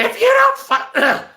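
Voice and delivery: very high put-on voice that gives out, half laughing; failed character voice. Shown as a demonstration. Streamer retries a voice they can't do, high and strained. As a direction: push up into falsetto and break off. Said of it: "I can't even do it".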